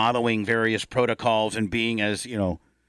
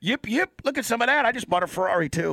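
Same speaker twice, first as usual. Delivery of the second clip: Mahomes impression; 9 semitones higher than usual. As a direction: brag like a rich star who just beat covid, pitched way up. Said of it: "then he could be like".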